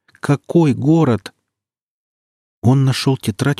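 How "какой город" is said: slow and louder, higher; rising despair. Acted. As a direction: cry it out in disbelief. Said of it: "шевелил Никита онемевшими губами".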